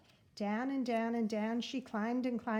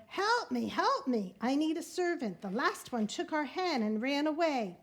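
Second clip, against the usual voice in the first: higher, louder giantess cry for help; giantess roaring; 4 semitones higher, 4 dB louder than usual. Acted. Giantess demanding a servant at the door, loud cry. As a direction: call out like a harried giantess. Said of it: "she roared".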